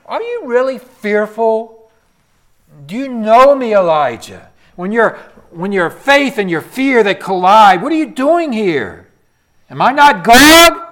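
preaching at full force to the congregation; fervent preaching. Real, not acted. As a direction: drive the questions home. Preacher pressing the question loudly.

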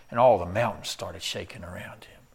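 hushed dramatic whisper; breathless whisper as the mountains shake. A narrator's reading. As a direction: drop to a whisper for the shaking. Dramatic retelling, unvoiced.

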